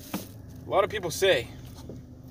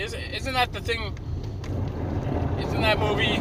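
mock innocent question; 7 semitones higher than usual. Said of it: "I say".

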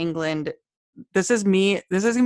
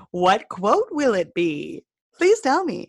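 mock eager anticipation; 3 semitones higher than usual. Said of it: "And then I'm like".

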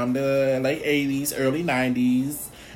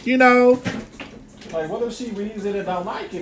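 very high, fast and louder; hammed-up nervous fretting; squeaky anxious rush; mock panic; 11 semitones higher, 4 dB louder than usual. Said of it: "And I'm like".

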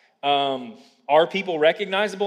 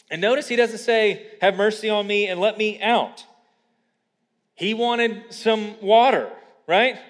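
raised, emphatic pulpit voice; forceful preaching; 6 semitones higher, 4 dB louder than usual. Real, not acted. Preacher warns congregation there are no do-overs, forceful preaching. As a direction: preach it with urgent conviction.

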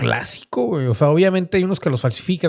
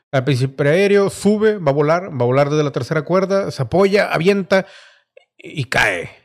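wrestling commentator; 2 semitones higher than usual. Acted. Play-by-play as wrestler climbs.

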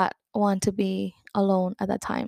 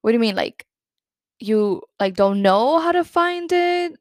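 bewildered disbelief; 2 semitones higher, 3 dB louder than usual. Retold or imitated. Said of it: "I really was not understanding".

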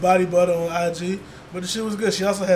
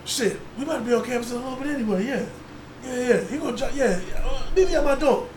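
imitating girl on phone; 5 semitones higher than usual. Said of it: "she was like".

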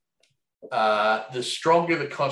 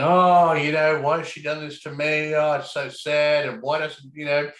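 hammed-up self-pity, high and loud on the opening oh; mock a heartbroken sulk that makes it all about himself; self-pitying whine; 3 semitones higher, 4 dB louder than usual. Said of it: "And they're going".

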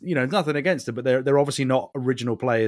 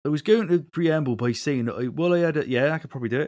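badly attempted Somerset accent; horrible Somerset accent; 3 semitones higher than usual. Shown as a demonstration. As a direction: try a rough Somerset accent. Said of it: "I could do a horrible Somerset accent".

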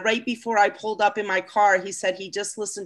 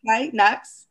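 put-on brief, louder try at an Aussie accent; attempted Aussie accent; 5 dB louder than usual. Put on the spot by a friend, tentative Aussie accent. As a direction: have a go at sounding Aussie. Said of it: "Do your best Aussie accent".

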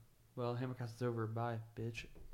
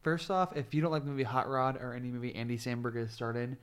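passionate rant; 5 dB louder than usual. Real, not acted. Fan rant about Andy Samberg.

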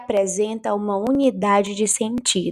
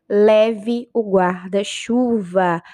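giving an order; much slower than usual. Shown as a demonstration. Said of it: "expressar uma ordem".

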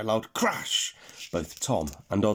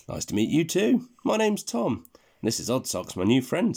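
put-on boy's voice; 4 semitones higher, 3 dB louder than usual. Tom's character voice.

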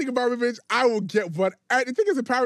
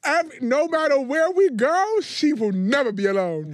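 teasing; 8 semitones higher, 7 dB louder, slower than usual. Real, not acted. Teasing friend, loud and slow.

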